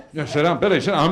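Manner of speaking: loud, pushy heckle telling him to sit; a relative barking at a drunk uncle to sit; shouting him down. Acted. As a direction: shout him back into his seat. Family shouting Bill down.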